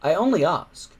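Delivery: breathless, strained; gasping for air. Acted. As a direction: speak while short of breath. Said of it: "gasping for air".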